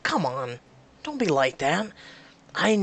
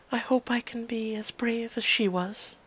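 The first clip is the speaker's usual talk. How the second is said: sad; 4 semitones higher, 4 dB quieter than usual. Acted. Tearful Rose after sobbing.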